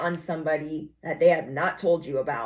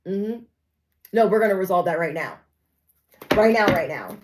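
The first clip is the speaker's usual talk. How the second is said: louder, insistent call-out; heated confrontation; 4 dB louder than usual. Retold or imitated. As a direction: demand it right now. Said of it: "to tell them".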